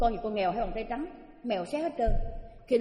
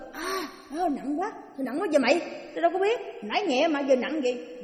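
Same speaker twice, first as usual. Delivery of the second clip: higher, voicing men straining at a heavy load; straining ghost men; 5 semitones higher than usual. Four ghost men lifting the girl, straining and puzzled. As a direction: grunt it out, surprised at the weight.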